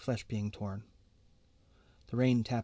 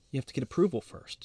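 fast, all in one breath; 2 semitones higher, 3 dB louder, faster than usual. A narrator's reading. Sister hurriedly warns her brother, fast in one breath. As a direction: rush it out without a pause. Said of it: "she says in one breath".

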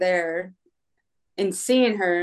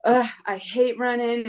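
whiny complaint; 3 semitones higher, slower than usual. Retold or imitated. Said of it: "I'm like".

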